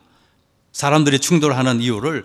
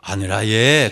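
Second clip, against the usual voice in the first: put-on light Gyeongsang accent, pitched lower; Gyeongsang dialect; 5 semitones lower, much slower than usual. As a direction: quote it with a touch of Gyeongsang lilt. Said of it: "경상도 사람들은".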